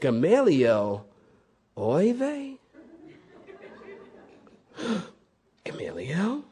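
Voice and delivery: put-on light Yiddish accent, amused. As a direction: sigh it out like an old Yiddish uncle. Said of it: "When these Jewish people heard the name Gamaliel".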